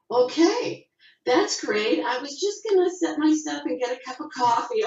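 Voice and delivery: high retold cheery reply to the crew; nervous newcomer. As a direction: play it cheerful while thrown off balance. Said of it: "I said".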